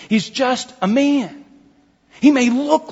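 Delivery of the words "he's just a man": slow, higher, emphatic "just a man". Shown as a demonstration. Preacher repeating his point to the congregation, emphatic. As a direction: draw out "just" and "man" with raised pitch. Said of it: "being emphatic".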